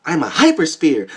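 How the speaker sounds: hammed-up shouted announcement; booming hypersphere voice. Orb announcing itself to him, mock booming shout. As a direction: boom it out like a strange being. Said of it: "And then I just hear".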